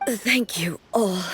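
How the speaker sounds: slow, breathy whisper of gratitude; whispered thanks. Acted. Exhausted ruler thanking her soldiers, whispering. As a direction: barely voice it, worn out and moved.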